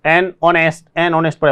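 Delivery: एन said firmly before ऑनेस्ट; stressed an. Shown as a demonstration. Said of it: "pronunciation आना चाहिए". (एन पर ज़ोर)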